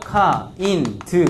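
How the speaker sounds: each syllable split apart, 카 인 드; Korean syllables. Shown as a demonstration. Teacher breaks the word into Korean syllables, slowly. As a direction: say 카, 인, 드 as three separate Korean beats. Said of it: "한국말로 해볼까요?".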